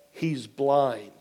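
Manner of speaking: low, soft, matter-of-fact delivery; quiet reveal. Retold or imitated. Nurse breaks the news to pastor, quiet reveal. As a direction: drop the voice, understated.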